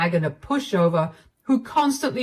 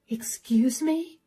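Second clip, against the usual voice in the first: slow, breathless whisper of disbelief; stunned whisper; 4 semitones higher, 3 dB quieter, slower than usual. Acted. Wife reacting to husband calling her annoying, whispered. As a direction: barely voice it, stunned.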